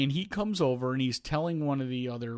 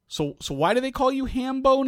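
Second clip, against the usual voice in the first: mock puzzled; 9 semitones higher, 3 dB louder than usual. Coach quizzing umpire, playing dumb.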